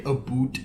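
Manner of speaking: "a boot" with an oo vowel for about; imitated Canadian pronunciation. Quoting how a Canadian says about, "a boot" with an oo. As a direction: mimic Canadian "a boot", the ou turned to oo. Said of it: "I think I've heard him say".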